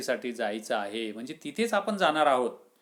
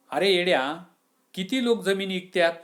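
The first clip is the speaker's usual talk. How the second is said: raised, scolding rebuke; chiding friend; 5 semitones higher, 4 dB louder than usual. Acted. Friend scolding the weeping farmer, raised rebuke. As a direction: shake him out of his self-pity. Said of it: "Abu म्हणतो की".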